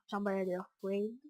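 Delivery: Charmander Flame said slowly in a put-on English accent; mock English accent. Gamer jokes to viewers in a mock English accent. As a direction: drawl the Pokémon name in a hammed English accent. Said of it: "Avec une magnifique accent anglais".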